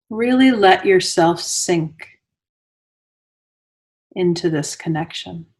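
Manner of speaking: unhurried meditation guide with long pauses between phrases; guided meditation. Real, not acted. Teacher guiding listeners into Yoga Nidra, guided meditation voice. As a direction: lead them into stillness, phrase by phrase, leaving space.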